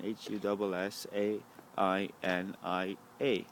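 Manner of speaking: slow letter-by-letter spelling of H U S S A I N I A; spelled out slowly for the viewer to Google. Shown as a demonstration. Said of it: "Just Google that stuff".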